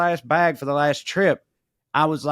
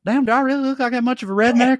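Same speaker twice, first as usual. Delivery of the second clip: mock fan whine; 9 semitones higher, faster than usual. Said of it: "he's like".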